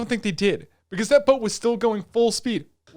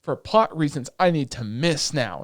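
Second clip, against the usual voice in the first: mock character; 5 semitones lower than usual. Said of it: "she's like".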